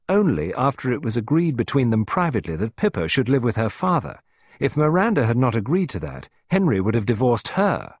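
crisp, precise, measured points; clear and concise. Acted. Clarissa to Costello, stating the terms clearly and concisely. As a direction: lay it out clearly and firmly. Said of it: "speaking clearly and concisely".

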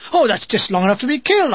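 cheerfully. Retold or imitated. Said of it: "I said cheerfully".

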